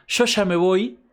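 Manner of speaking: a hint of a Buenos Aires accent; Argentine accent. Teacher imitates Maradona's Argentine Spanish for students, a lightly done Argentine accent.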